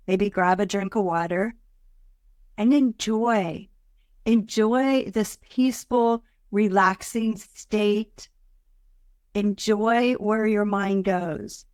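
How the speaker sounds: slow, drawn-out, soothing invitation; easing into meditation. Acted. Host settling listeners before a meditation, slow and soothing. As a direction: linger on each phrase with long pauses.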